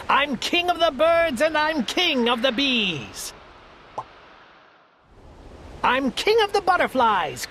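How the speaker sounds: high, proud voice crowing over his kingdom; a puffed-up little king bragging; boastful turtle king. A narrator's reading. Yertle brags to everyone from his throne, high and proud.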